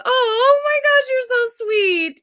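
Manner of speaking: high, loud and slowed, near tears of joy; real touched delight; gushing. Real, not acted. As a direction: melt at the compliment. Touched by viewer compliment.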